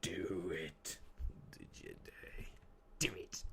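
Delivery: whispered sinister urging; Palpatine. Acted. Urging like the film villain, sinister whisper. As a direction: whisper it like an evil emperor. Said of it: "Just like the Palpatine hymn".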